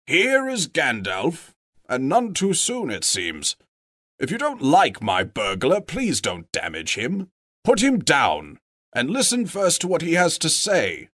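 wizard voice. Acted. Wizard voice, higher and measured.

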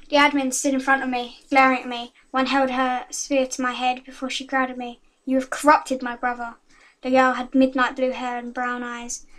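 reading her fan story aloud. Acted. Girl reading her story to viewers, storytelling voice. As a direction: read it like a dramatic tale.

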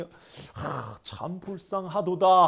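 sighing, slow royal lament; sigh, then draw out the king's pity. Acted. King pities the starving peasant, in slow pitying royal voice. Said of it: "이 고국 천황이".

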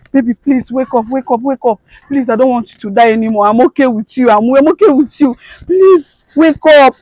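high, sobbing pleas; tearful pleading. Acted. Wife pleading with her lifeless husband, sobbing plea. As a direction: beg him through tears.

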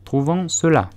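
grumpy mouse repeating; sullen, put-out reply; the annoyed mouse answering the duck; sulky. A narrator's reading. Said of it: "d'un ton plutôt maussade".

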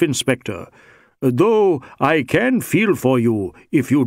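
lightly voiced Indian rogue, mock-sympathetic; a hint of feigned timidity; regretful Sikh suspect. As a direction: sympathise slyly with the inspector.

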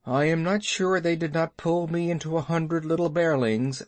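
solemn, rueful bear voice; a touch of mock gravity; grave bear. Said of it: "said Baloo gravely".

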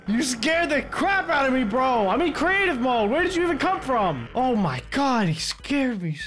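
high rattled voice; shaken exclaiming. Real, not acted. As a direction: still buzzing from the scare. Just scared.

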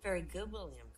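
mildly cooing schoolteacher; cooing teacher. Acted. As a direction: praise a small pupil. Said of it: "cooed the teacher".

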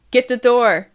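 high, loud command; screamed order. A narrator's reading. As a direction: holler it through the house. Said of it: "I scream".

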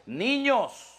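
Paul scolding immature believers; stretched, chiding apostle's words; voicing the apostle Paul. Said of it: "que les dice".

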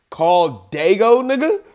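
slow, drawn-out mock of his line; mocking quote. Mocking the streamer's old comeback, slow and drawn out. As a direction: stretch it out to mock him. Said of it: "You was like".

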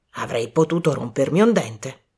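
low-pitched, mild grumble; grumbling. Acted. Colonel after nearly breaking a tooth, grumbling. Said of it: "bofonchiò".

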